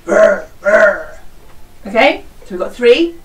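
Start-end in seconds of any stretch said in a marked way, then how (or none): 0.1-1.2 growling along as the bear with the class. Shown as a demonstration. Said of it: "You do it".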